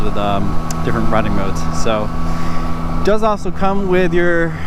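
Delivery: muffled helmet mic over engine; talking from inside a helmet; inside a motorcycle helmet. Real, not acted. Riding bike, talking in helmet.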